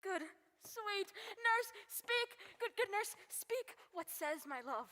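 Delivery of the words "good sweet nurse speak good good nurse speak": high, urgent begging; pleading urgency. Acted. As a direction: plead with her to just say it. Juliet begs nurse to speak.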